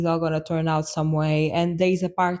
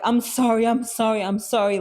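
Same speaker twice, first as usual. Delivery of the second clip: mildly desperate retold apology, pitched up at first; repeated sorry in mock desperation; 4 semitones higher than usual. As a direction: re-enact apologizing over and over, a touch desperate. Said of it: "like, so desperate".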